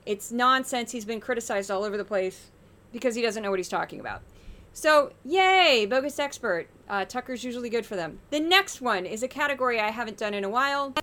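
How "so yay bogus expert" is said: loud, higher yay; half-joking cheer for the segment; mock cheer. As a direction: stretch out a mock celebratory yay.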